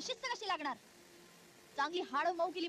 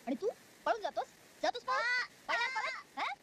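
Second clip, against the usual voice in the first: angry berating. Acted. Teacher scolds child who tried to run away, angry. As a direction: rage at the runaway pupil.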